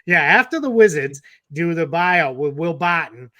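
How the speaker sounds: laughing while talking; words through a laugh. Real, not acted. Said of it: "My wife is even shaking her head".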